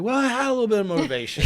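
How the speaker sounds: high, fast and dry, playing it down; wry understatement. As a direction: toss off the punchline lightly, with irony. His wry punchline reply.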